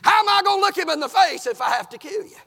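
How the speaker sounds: high, loud anguished appeal; impassioned plea. Acted. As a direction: plead at full preaching force. Acted plea repeated after running.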